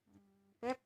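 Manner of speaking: whiny pampered. Retold or imitated. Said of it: "Itu kan manja ya, anak kecil ya".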